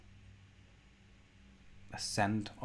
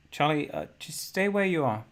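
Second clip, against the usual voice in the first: loud, raised call; calling to a child; 4 semitones higher, 8 dB louder than usual. Acted. Parent telling Charlie to stay put, calling out. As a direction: call out a hesitant instruction.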